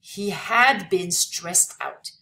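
slow, deliberate English reading; read-aloud lesson text. Acted. Teacher reads the passage to students, slow read-aloud. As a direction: read it out slowly for language learners.

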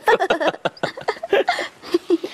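high giggly laugh; giggle. Real, not acted. Giggling after saying boo.

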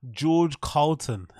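slow mocking George Carlton; mispronounced name. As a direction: repeat the slip slowly, Carlton for Carlin. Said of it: "pronounce their name".

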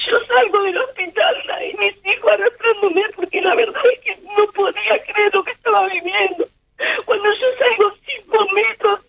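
tearful, voice breaking throughout; a grieving mother holding back sobs; crying while speaking. Real, not acted. Llora al relatar la muerte. (llorando, con la voz entrecortada por el dolor)

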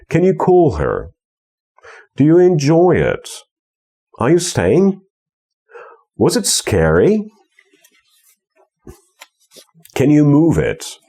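two light beats, then a high strong third; stress on third syllable. Shown as a demonstration. Teacher drilling a question melody, stress on the third syllable. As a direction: skim the first two syllables, hit the third. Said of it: "Nieakcentowana, nieakcentowana, akcentowana".

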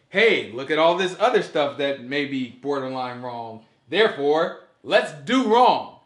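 voicing their flawed logic, the final words slow and loud; mock the opponent's argument; mocking quote. Mocks opponents' reasoning.

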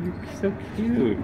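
high squeaky cooing; squeaky praising a dog. Real, not acted.

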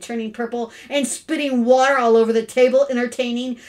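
loud list building to a shout; mounting indignation. Acted. Father throwing his son's antics back at his wife, increasingly furious.

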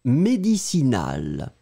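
médicinal said slowly and clearly; dictation pronunciation. Shown as a demonstration. Teacher dictating a word to students. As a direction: dictate médicinal, one syllable at a time. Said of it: "Écrivez-le, s'il vous plaît".

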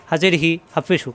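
হি and হু as brief syllables; no lingering on হি or হু; short, no delay. Shown as a demonstration. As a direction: keep the vowels of হি and হু short. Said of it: "কোনো দেরি করা যাবে না".

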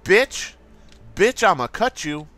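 lightly voiced sassy "oh no you didn't"; a hint of a sassy diva; PewDiePie impression. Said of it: "That's my impression of PewDiePie".

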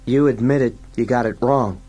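high-pitched accusation; accusing sidekick. Acted. Fergie catches Dredd's admission, high and accusing.

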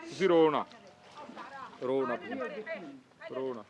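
tender, fading reassurance; gentle consoling. Real, not acted. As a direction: hush someone in tears, with pauses. Reporter consoles a weeping woman.

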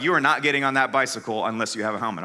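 a hint of a strict mother laying down the law; stern mom. Son retelling his mom's rule in a low stern voice. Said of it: "my mom was like".

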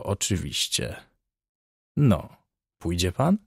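lightly voiced doctor, amused and musing; a hint of a talkative surgeon, varied melody; chatty hospital surgeon. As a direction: discuss a curious case with detached relish. Surgeon's chatty monologue continues.

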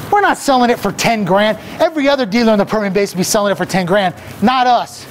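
car ad pitch at full throttle, racing the clock; hyped car-dealer pitch. Acted. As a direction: shout the deals like a manic auctioneer. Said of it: "I got a little excited out there".

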